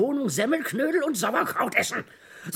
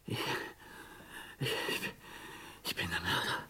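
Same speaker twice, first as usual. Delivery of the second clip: much lower, softer, halting; a shattered murderer confessing quietly; broken murmur; 15 dB quieter than usual. Acted. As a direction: let the words fall apart.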